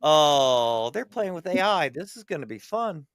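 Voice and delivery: gleeful voice dropping to a hush; smug onlooker settling in for the show; lightly voiced gleeful alien; amused alien spectator. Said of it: "sit back and go".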